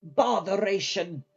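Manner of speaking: put-on slow, drawn-out exasperated old woman. A narrator's reading. Sophie exasperated as everyone leaves, drawn-out. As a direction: let the frustration drag out.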